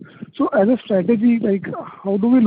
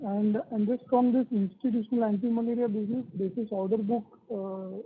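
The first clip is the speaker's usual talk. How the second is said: faint and fading, much softer; feeble voice; 9 dB quieter than usual. Real, not acted. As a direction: trail off into a weak, distant voice. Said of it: "your voice is coming feeble".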